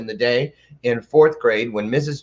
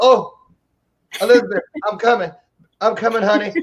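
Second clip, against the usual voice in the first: put-on classic old sitcom old-man voice, pitched up high; 9 semitones higher than usual. Explaining how they would answer a morning greeting, speaker does a Fred Sanford impression. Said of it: "doing a Fred uh, Sanford thing".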